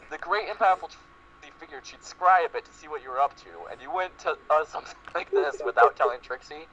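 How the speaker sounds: lightly voiced haughty mare; boastful Trixie. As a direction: lightly voice a self-important magician.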